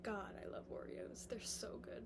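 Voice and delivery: soft whisper so the dog keeps sleeping. Real, not acted. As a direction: hush it, don't wake the dog. Dog sleeping beside her.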